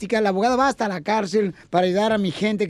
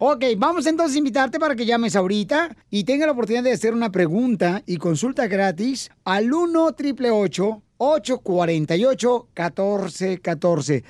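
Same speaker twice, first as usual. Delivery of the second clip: plain. Shown as a demonstration. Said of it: "diste muy rápido el número telefónico".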